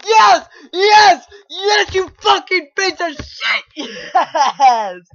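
loud high yes breaking into a laugh; real victory cheer; triumphant laughing yes. Real, not acted. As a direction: cheer with relief. Finally beats the obstacle.

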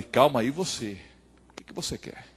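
low, soft, guarded comeback; wary retort. Acted. Pastor answers the startled young man, wary low retort. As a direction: drop low and quiet, fading at the end.

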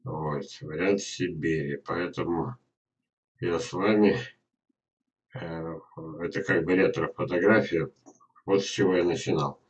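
ordinary delivery

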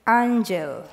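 Angel drawn out long and rasping; dragged out, gravelly. A narrator's reading. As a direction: stretch Angel out like raking gravel. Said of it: "dragging out the word like she's raking gravel".

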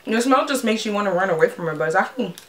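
biting snack mid-sentence; talking while chewing. Real, not acted. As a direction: mouth partly full. Seen 1: Middle speaker holds stick, bites it mid-sentence while talking.

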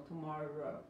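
TOMORROW with rounded lips and floating tongue; English R. Shown as a demonstration. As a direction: model TOMORROW with an untrilled R. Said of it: "Un círculo con los labios, la lengua flotando".

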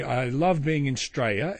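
"Australia" shortened to "Straya"; local pronunciation. Shown as a demonstration. Podcaster coaching visitors to fit in, "Australia" said "Straya". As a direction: drop the first syllable of "Australia": "Straya". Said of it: "If you want to fit in".

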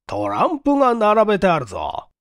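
lightly voiced astonishment at the cards; mildly amazed. Inspector noticing the playing cards on the desk, mildly amazed. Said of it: "また呆れたように".

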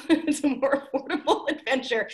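words broken up by a laugh. Real, not acted. Actor laughing as she pitches the cheaper version. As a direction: laugh through the line as you say it. Laughing at her own idea.

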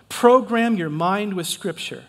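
stressed and drawn out; slow, emphatic repeat. Shown as a demonstration. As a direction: drive the phrase home slowly. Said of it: "here's another one".

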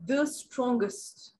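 "the strongest" very slowly, THE set apart; stress on THE. Shown as a demonstration. Teacher shows students the superlative, stressing THE. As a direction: draw out "the", pause, then "strongest". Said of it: "उसके साथ the भी इस्तेमाल करेंगे".

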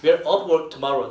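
slow, drawn-out demo line; slow model reading. Shown as a demonstration. Teacher slowly models the line for students, slow and clear. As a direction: read it slowly so they catch off. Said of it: "오프 이렇게 뭐라 그래요?".

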